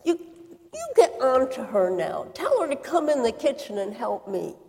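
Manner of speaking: bursting in to protest the unfair work; sister's indignant plea to Jesus for help; exasperated outburst. Acted. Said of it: "burst out of the kitchen ... and cried".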